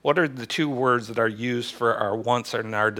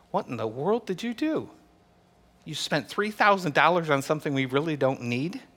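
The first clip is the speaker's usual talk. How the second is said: lightly voiced wife, higher pitch; a hint of a disbelieving wife; incredulous wife; 3 semitones higher than usual. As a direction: question him in mild disbelief. Acted wife challenging husband's purchase.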